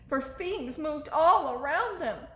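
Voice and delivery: plain reading voice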